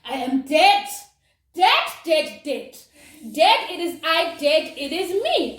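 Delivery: loud mock wail of doom, laughing at the end; hammed-up I-am-dead lament; dramatic despair. To the doctor after hearing she must go back, a hammed-up wail. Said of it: "I'm like".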